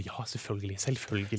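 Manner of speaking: low, soft repeated assurance; feigned recognition. Acted. Pretending to remember Tore's name, softly assuring. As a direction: murmur it over and over, pretending to remember.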